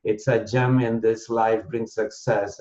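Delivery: measured verse with a steady three-beat lilt; deliberate, rhythmic phrasing that leans on each stressed beat; anapest poem recital. Shown as a demonstration. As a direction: recite it as metered poetry. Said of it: "in a poetic form".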